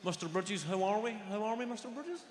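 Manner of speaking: a hint of a cheeky street kid. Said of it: "they call me Mister Bridges".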